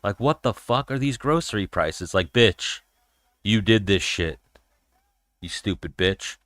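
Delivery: lampoon her complaining about prices; mock Kamala. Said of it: "and she was like".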